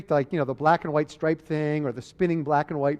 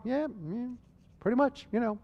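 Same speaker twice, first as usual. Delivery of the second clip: casual, higher-pitched mock nonchalance; indifferent patient; 5 semitones higher than usual. Paralyzed patient answering the doctor's questions, acted indifferent. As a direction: shrug it off as an unbothered patient. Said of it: "they're basically surprisingly indifferent to this".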